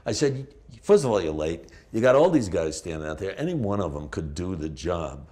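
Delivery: loud retold blurting complaint; Tourette's-like outburst. Actor retells berating late casting people, loud outburst. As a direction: blurt it out loudly, as if uncontrollable. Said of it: "it was like Tourette's".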